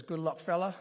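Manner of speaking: a hint of an Australian coach's accent. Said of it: "in that Australian accent".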